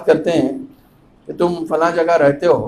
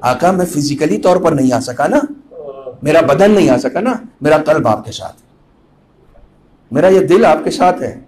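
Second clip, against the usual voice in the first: quiet devotion; 3 semitones lower than usual. Shown as a demonstration. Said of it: "ایسے بولو".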